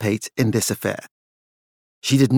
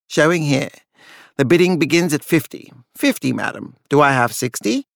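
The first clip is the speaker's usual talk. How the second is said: rising, quick auction patter; auctioneer calling bids. Acted. Auctioneer taking bids from the room, brisk patter. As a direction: keep the bids rolling like a practiced auctioneer.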